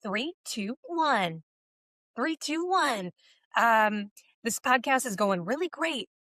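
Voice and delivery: news anchor countdown, rising and falling inflection; news persona voice. Shown as a demonstration. Guest gives a line for the host, news persona voice. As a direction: put on a light news presenter voice. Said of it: "your news persona voice".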